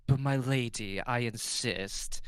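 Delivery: lightly mocking noble voice, slowing at the end; mocking nobleman. Gallant noble insisting to his lady, mock-courtly. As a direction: put on a bit of mock nobility, drawing out the last words. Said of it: "best mockingly nobility voice".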